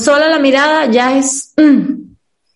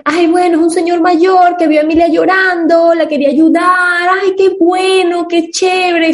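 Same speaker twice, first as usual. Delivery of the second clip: lightly voiced sugary woman, a bit higher; mock sweet woman; 4 semitones higher than usual. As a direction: play a naive, grateful lady, drawn out on "ay, qué bueno".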